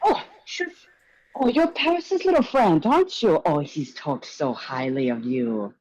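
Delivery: high, gushing showman's voice; flamboyant host. Acted. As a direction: greet the guests like a theatrical charmer. GM voices Mister Gallagher.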